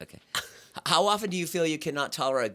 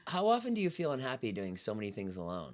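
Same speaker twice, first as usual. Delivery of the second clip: softer quiz read, pitch sliding down; that teasing quiz voice; 6 dB quieter than usual. Real, not acted. Quizmaster reads loneliness question to friend, in soft put-on voice. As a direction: read it softly, letting the pitch sink through the question. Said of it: "you said it in that voice".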